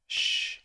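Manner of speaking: just hiss out a plain sh; sh sound. Shown as a demonstration. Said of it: "is just pronounced".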